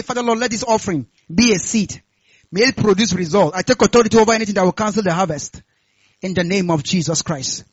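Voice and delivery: loud, firm offering prayer; declarative prayer. Real, not acted. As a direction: pray with authority for the congregation to repeat. Models prayer over the offering.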